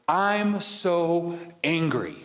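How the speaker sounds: drawn-out, heavy delivery; slow emphatic quote. Shown as a demonstration. Vlogger replaying the line that struck her, slowly. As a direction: let each word sink in slowly. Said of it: "the part that really struck me".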